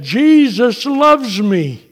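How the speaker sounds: high, slow, swelling exclamation; retold overwhelmed wonder. Husband quoting his dying wife, overwhelmed high wonder. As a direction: let it soar slowly, overwhelmed. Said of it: "such an overwhelming thing".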